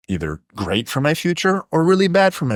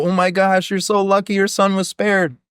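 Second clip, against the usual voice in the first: high, gushing mock delight; hammed-up villagers cheering the spared son; excited villagers; 8 semitones higher than usual. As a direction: congratulate him on his luck. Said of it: "all the fucking town folk go".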